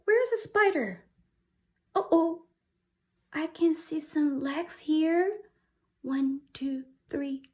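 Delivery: high, hushed-building spider hunt; suspenseful. Acted. Teacher building suspense for children before a spider. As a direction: tease the scary reveal, counting legs.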